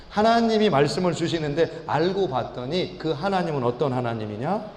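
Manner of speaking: normal talking voice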